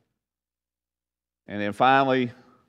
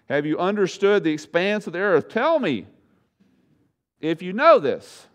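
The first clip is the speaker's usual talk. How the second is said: higher, louder divine questioning; God challenging; 4 semitones higher, 3 dB louder than usual. Acted. God testing Job's knowledge, raised and challenging. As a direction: demand it of Job, rising to a peak.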